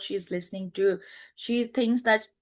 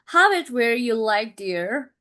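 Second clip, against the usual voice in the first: sarcastic. Acted. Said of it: "in a sarcastic way".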